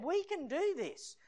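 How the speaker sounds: high, slow and certain; bold declaration. Retold or imitated. Joshua answering the fearful crowd, high and certain. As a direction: announce it like a man who can't be stopped.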